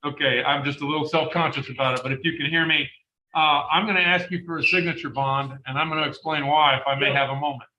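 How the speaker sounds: slightly muffled by a face mask; words dampened behind a mask; through a mask. Real, not acted. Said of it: "hear me okay through this mask".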